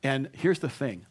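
ordinary talk

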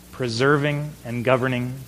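ordinary delivery

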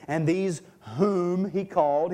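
"whom" given extra weight; stress on "whom". Real, not acted. Preacher reads who was called, "whom" emphasized. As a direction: lean on "whom" as you read. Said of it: "I'm emphasizing the word whom".

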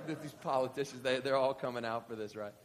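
ordinary delivery

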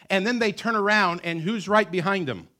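loud, high preacher's build; full-force preaching. Acted. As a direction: drive the story home from the pulpit.

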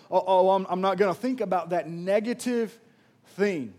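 loud, determined self-talk; firm resolve. Retold or imitated. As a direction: declare it out loud with conviction. Voicing resolve against negativity.

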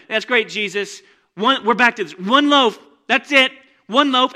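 loud, high complaining disciple; whiny disciples. Acted. Disciple grumbling in the boat to Jesus, loud whine. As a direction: moan about the one loaf.

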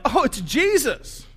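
high, drawn-out cry of astonishment; acted yelling. Disciples spotting Jesus out on the lake, yelling. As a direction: yell it to the others in the boat. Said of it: "they start to yell".

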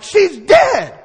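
she's dead, a laughing shriek; shocked shout. Retold or imitated. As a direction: yell in mock panic, cracking up. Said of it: "And I'm like".

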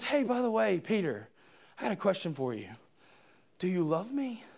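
very soft, low and tender; hushed tender question. Acted. Jesus asking Peter softly if he loves him. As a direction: ask it gently, almost under the breath.

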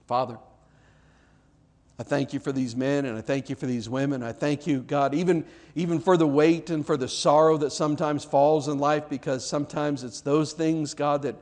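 earnest pastoral prayer voice; closing prayer. Acted. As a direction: pray sincerely over the congregation.

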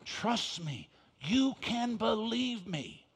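put-on softly, slowly reassuring a child; hushed, steady parent's promise; earnest parental reassurance. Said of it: "you just looked at him and says".

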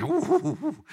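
rising delighted oohs, laughing; gleeful oohs. Acted. Preacher relishing the gold watch, gleeful oohs. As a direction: savor it like a treasure.

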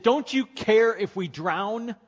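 high, loud and slow, crying out in fear; terrified disciples shouting at sleeping Jesus; panicked shout. Acted. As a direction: yell it like drowning men begging for help.

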